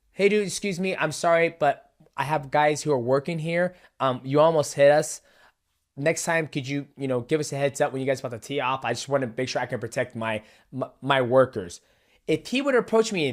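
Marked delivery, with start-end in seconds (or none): 0.1-11.8 softer, courteous, apologetic ask; gently polite, mock decent; polite request. Host showing how the homeowner should have asked, softly polite. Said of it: "how he should have approached me".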